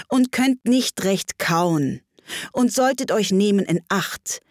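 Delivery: poem recitation. Acted.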